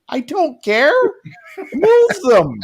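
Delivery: high, loud mock command; bossy order. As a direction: bark the order like an entitled boss. Boss ordering staff, retold.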